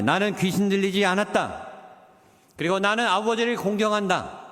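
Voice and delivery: firm, confident declaration. Shown as a demonstration. Pastor showing the congregation how to answer boldly. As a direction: stand tall and state it plainly. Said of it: "더 당당하게 말하세요".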